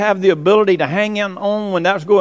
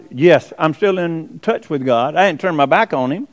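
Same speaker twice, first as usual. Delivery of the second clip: quiet assurance; 4 semitones lower than usual. Retold or imitated. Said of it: "then you realize".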